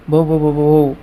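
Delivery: a light stammer on the same syllable. Retold or imitated. Shy girl stammering her name to the teacher, lightly acted. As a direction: repeat the sound like a nervous girl stuck on her name. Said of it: "वो हकलाने लग जाती है".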